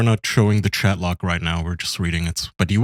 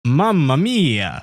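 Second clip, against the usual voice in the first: slow, high, hammed-up Italian accent; 5 semitones higher, much slower than usual. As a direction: stretch it out like a cartoon Italian. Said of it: "Can you do an Italian accent?".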